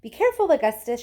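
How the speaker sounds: father shouting a quick warning. Acted. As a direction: hurry out a loud warning. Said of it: "shouted Mister Gloop".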